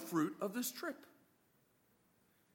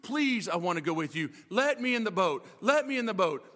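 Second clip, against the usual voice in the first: begging that builds louder; pleading; 5 semitones lower, 5 dB louder than usual. Retold or imitated. Healed man begging Jesus to take him along, pleading and rising. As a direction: plead harder with each line. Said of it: "The man is pleading".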